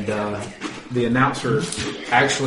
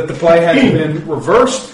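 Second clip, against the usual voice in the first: loud, slow referee ruling; projected, measured stadium ref voice; referee announcement; 5 dB louder, slower than usual. Acted. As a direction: draw out the official verdict. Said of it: "he turns on his little microphone".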